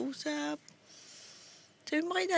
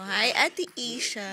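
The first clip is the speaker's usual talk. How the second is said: cheerful greeting; 3 semitones lower, slower than usual. Pretend. Parent greeting big sister for baby, cheerful. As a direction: call hello for the baby.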